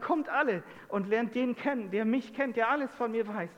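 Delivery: a touch of breathless-to-share enthusiasm; excited summons. Retold or imitated. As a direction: imitate calling a whole town together. Woman calling the townspeople, retold.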